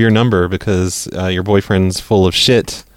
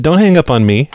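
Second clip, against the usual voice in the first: repeated louder, higher; 4 semitones higher than usual. Real, not acted. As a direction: say it again, firmer. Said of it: "I said".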